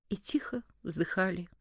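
soft, low, near-whispered narration; hushed sighing. A narrator's reading. Narrator recalls sighing at thoughts of death, hushed. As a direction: let it sink to a hushed sigh.

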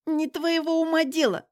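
high-pitched, offended retort; indignant. A narrator's reading. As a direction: shut him down with indignation. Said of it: "возмутилась".

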